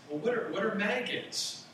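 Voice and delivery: put-on a small boy points and asks; little boy voice. Little son asks his father, lightly voiced child. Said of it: "the little boy said".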